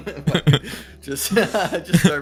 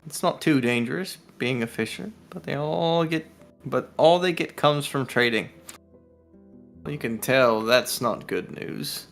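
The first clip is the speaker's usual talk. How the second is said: measured story-reading delivery; storybook narration; game master reading; slower than usual. Acted. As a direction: read the villager's lore out evenly, phrase by phrase. Game master reads the woman's lines.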